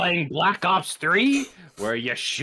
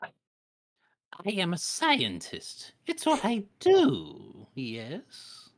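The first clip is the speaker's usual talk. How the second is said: Starscream voice; 4 dB quieter, much slower than usual. Pretend. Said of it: "can you do Starscream?".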